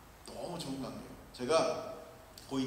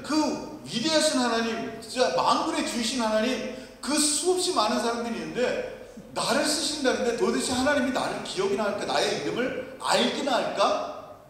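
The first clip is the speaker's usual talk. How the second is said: awed wonder; 6 semitones higher than usual. Retold or imitated. Retells his wondering as a teen.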